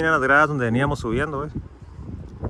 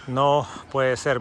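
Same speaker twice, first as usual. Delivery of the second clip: drawn-out amazement; slow amazed disbelief; much slower than usual. Real, not acted. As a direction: stretch it out in awe. Amazed, much slower.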